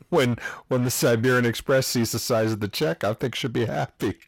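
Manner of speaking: put-on light Polish-style accent; a hint of a Siberian accent. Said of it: "it's the only Siberian accent I have".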